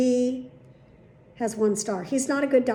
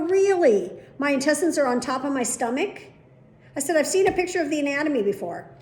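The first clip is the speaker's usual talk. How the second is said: louder, higher sarcastic pushback; indignant challenge; 4 semitones higher, 4 dB louder than usual. Retold or imitated. Patient snapping back at the doctor, sarcastic and loud. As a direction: push back hard, incredulous.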